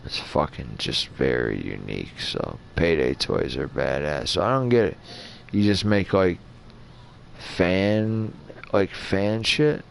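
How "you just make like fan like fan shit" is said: sluggish, heavy-tongued talk; words dragging out half asleep; slow drowsy speech. Real, not acted. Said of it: "I'm sorry I'm talking so slow".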